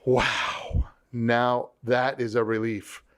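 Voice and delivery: slow, relieved realization; measured "wow" of relief; mild acted relief. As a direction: let it out slowly, with a touch of relief. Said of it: "here's the feeling I get".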